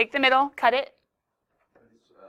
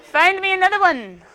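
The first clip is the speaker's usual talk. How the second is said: mock despair; 3 semitones higher, 4 dB louder than usual. Mock despair at degenerate problem.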